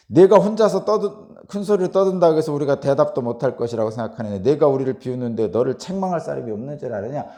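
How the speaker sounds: loud opening, pressing challenge; acted rebuke. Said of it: "욥을 막 책망하고 있어요".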